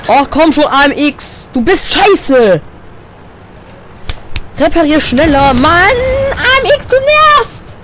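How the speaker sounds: high, loud frustrated raging; furious yelling. Real, not acted. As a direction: rage at teammates at the top of your voice. Furious at teammates mid-battle.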